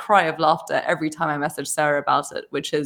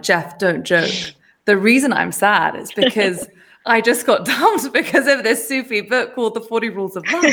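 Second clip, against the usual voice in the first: laughing protest; 3 semitones higher, 3 dB louder than usual. Retold or imitated. Her laughing protest to Jeff.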